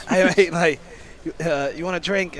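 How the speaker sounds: hammed-up Aussie bloke offering a drink; an athlete imitating an Australian offering a drink; mock Australian accent. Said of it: "terrible Australian accent".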